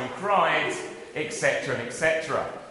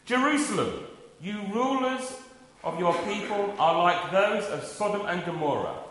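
measured, solemn Bible reading; scripture reading. Acted. Preacher reading Colossians to the congregation, solemn and measured. Reads Isaiah passage aloud.

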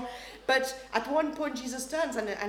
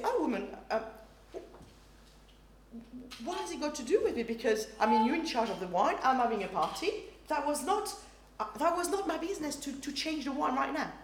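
light, friendly reasoning; gentle; 3 semitones higher than usual. Retold or imitated. Jesus kindly explaining to his mother, light and friendly. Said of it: "this is what it really meant".

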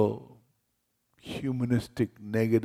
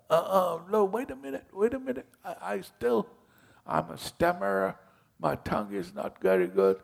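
high, stammering protest; flustered Moses; 9 semitones higher, faster than usual. Retold or imitated. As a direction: panic a little, high-pitched. Moses objecting, voiced by preacher.

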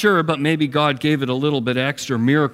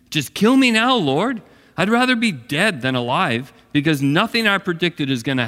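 exasperated Jonah; 4 semitones higher than usual. Acted. Jonah's exasperated complaint voiced.

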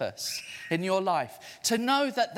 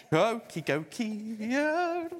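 call and response; 4 semitones higher, slower than usual. Shown as a demonstration. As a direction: go key called back brightly. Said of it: "Can you say go key?".

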